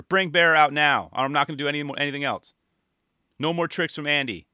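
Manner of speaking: loud, high, outraged demands; entitled customer. Retold or imitated. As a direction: storm in like a furious Karen. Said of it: "He's like".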